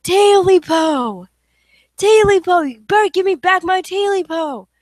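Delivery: loud menacing ghost wail; deafening ghost cry. Acted. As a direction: roar it so it fills the house. Creature's threatening call.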